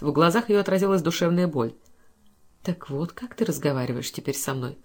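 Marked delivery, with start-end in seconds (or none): 2.6-4.8 quiet, lower, dull voice; muffled. A narrator's reading. Wounded wife answers her husband's insult, muffled and quiet. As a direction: say it low and hollow, hurt. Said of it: "сказала она глухо".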